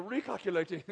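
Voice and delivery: lightly put-on British sat-nav lady; mock British navigation voice, said for laughs; British accent. GPS lady rerouting a driver, mock British accent. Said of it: "British accent".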